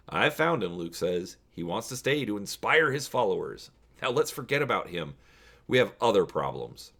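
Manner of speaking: steady read-aloud storytelling voice; story narration. A narrator's reading. Host reading the choose-your-own-adventure to viewers, storybook narration.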